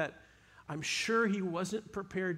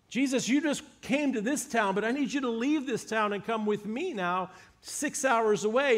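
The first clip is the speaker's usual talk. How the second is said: a father pleading with Jesus, pitch raised, urgent; desperate father begging; 3 semitones higher than usual. Retold or imitated. Father begging Jesus to come heal his son, urgent plea. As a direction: beg him to come now, the son is dying. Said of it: "begging Jesus to heal his son".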